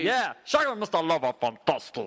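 a singer. Acted. Singer signs off his serenade, playful singer impression. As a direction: sign off as the crooning star. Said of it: "a celebrity serenade from a singer".

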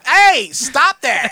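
loud, slow laughing scold; half-laughing stop it; laughing protest. Retold or imitated. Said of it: "I was like".

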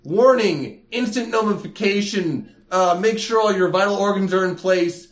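loud, high warning announcement; announcer voice. Pretend. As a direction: boom it like a public alert. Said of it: "it should be like".

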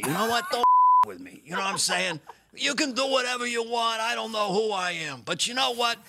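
hammed-up scrappy guard threatening; tough guy Fauci. Host shows guest his tough-guy Fauci, mock menace. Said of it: "here's my origin on my Fauci".

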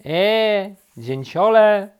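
loud, high hail; calling out. A narrator's reading. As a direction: call up to someone in a tree. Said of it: "zawołała".

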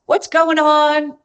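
cheery greeting. Retold or imitated. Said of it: "I said".

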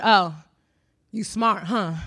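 drawled, dismissive "you smart, huh?"; condescending. Retold or imitated. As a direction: say it like a backhanded compliment. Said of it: "But, like, that".

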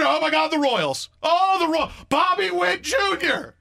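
hysterical fan parody. Retold or imitated. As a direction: ham up a fan losing it over a rival star. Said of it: "But the idea that, we're".

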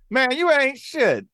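put-on high, loud, slow Black American-accented putdown; imitated Black American accent. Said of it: "I went black on him".

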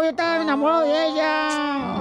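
wailing shout. Retold or imitated. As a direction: cry out the love he lost. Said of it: "le digo". (gritando con lamento)

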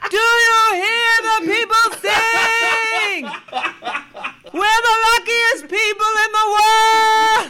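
high, slow belted yell. Retold or imitated. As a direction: shout it over the barricade noise. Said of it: "So I would yell out".

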